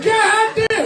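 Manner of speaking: high God damn, pushed up; amazed exclaim. Retold or imitated. Man admiring his shoes, amazed exclaim.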